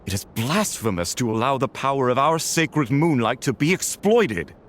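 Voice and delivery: outraged at the sacrilege; rising indignation. Acted. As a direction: counselor condemning the device.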